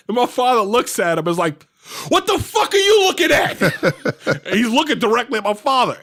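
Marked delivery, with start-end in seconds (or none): 2.1-3.6 high-pitched mock shout; hammed-up angry demand; belligerent challenge. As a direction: imitate a father picking a fight with security. Father challenges approaching guard.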